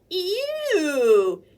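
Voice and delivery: high, loud disgusted ew; screaming hog. Acted. Sprayed hog screaming in disgust, loud. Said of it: "who screamed".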